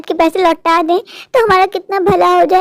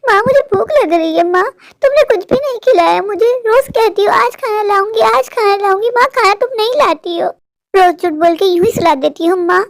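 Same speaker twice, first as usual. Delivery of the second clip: put-on reproachful hungry child. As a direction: sulk and accuse her of lying. Boy reproaches mother.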